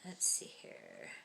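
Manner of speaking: hushed, slow mutter while searching; whisper. Real, not acted. Scrolling for the next story.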